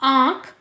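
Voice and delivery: आँख with a long vowel nasalised through nose and throat; nose-and-throat vowel demo. Shown as a demonstration. Teacher asking pupils to try it, आँख with a nasalised vowel. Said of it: "इसका उच्चारण आप कर कर देखिए".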